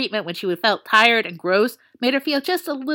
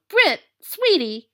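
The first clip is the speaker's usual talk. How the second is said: high, slow, strained words of a sick friend; sick friend barely getting words out; struggling sick voice; 8 semitones higher, slower than usual. A narrator's reading. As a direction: force the words out through a cold. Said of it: "he managed to get out".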